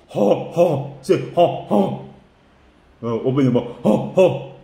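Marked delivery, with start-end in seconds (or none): 0.1-1.0 two puffed mock hippo snorts. Shown as a demonstration. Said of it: "They're snorting". 1.3-2.1 two puffed mock hippo snorts. Shown as a demonstration. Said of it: "They're snorting". 3.8-4.6 two puffed mock hippo snorts. Shown as a demonstration. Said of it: "They're snorting".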